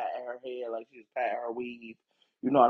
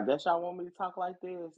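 lightly mimicked put-on talk, higher pitched; higher mocking quote of a put-on voice; imitating Honey Boo Boo; 6 semitones higher than usual. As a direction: imitate someone putting on an accent, pitched up. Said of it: "And she was like".

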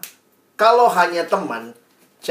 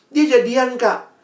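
higher-pitched mock upset teen; imitated tearful complaint; 7 semitones higher, 3 dB louder, slower than usual. Teen comes back to mentor upset, mock-tearful. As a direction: retell a teen's wail, without real crying. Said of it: "datang lagi nangis-nangis".

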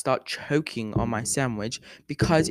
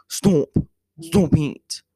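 pleading laughingly; 5 semitones higher, 3 dB louder, slower than usual. Retold or imitated. Begging friend to stop, laughing.

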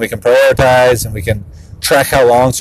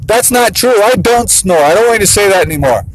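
high, whiny-mad kid imitation, easing down; mock a little kid's indignant yelling; mad six-year-old; 8 semitones higher than usual. Six-year-old fed up with his brother's teasing, imitated mad yell. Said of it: "he starts getting really mad at him".

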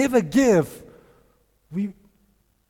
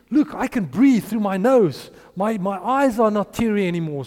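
excited; 2 semitones higher, 4 dB louder than usual. Retold or imitated. Healed woman exclaims joyfully.

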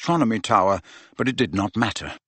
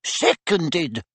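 1 barked; 5 semitones higher than usual. A narrator's reading.

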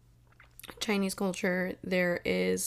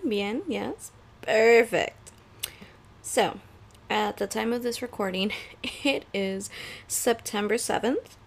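ordinary talk

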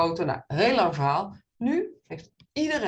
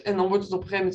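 ordinary delivery

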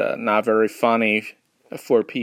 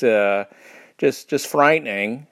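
ordinary delivery

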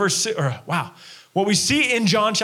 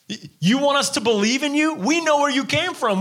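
scoffing crowd; 7 semitones higher than usual. Retold or imitated. Scoffing crowd voiced in retelling.

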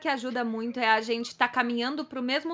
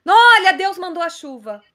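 mock believer; 6 semitones higher, 11 dB louder than usual. Imitates someone who prays for rain.

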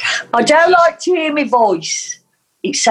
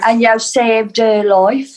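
Black Country accent; slower than usual. Shown as a demonstration. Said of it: "in Black Country".

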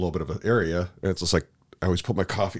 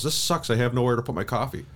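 higher-pitched mock gripe; mimicked complaining wife; 4 semitones higher than usual. Husband retelling his wife's reaction to losing the table, light mock complaint. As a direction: lightly imitate her complaint, pitched up and hurried. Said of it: "She goes".

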